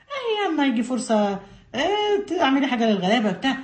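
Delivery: a hint of a sly tempter, talking her out of it; discouraging coaxing voice, the devil's whisper; a touch of a scheming devil; lightly voiced devil, tempting. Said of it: "ده مين اللي بيقول لها كده؟ الشيطان".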